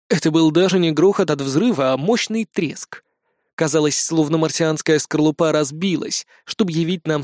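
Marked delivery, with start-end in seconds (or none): none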